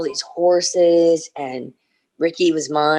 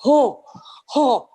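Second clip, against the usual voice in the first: excited bear noise; 8 semitones higher, 3 dB louder than usual. Retold or imitated. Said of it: "pretty soon he was like".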